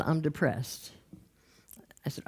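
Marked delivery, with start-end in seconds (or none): 0.0-0.9 subdued, softer acted admission; imitating a glum man; depressed. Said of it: "And he said".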